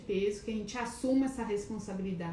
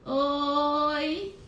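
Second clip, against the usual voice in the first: excited hello; 6 semitones higher, 6 dB louder than usual. Real, not acted. Calling out greeting to viewers.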